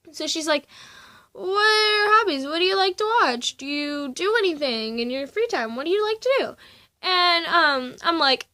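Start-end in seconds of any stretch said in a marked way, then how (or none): 1.3-6.6 mock cheery counsellor. Quoting counsellor again.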